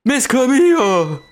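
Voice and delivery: long, slow, high call of the name; high voice calling for Camilla. Acted. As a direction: call her name, stretched out.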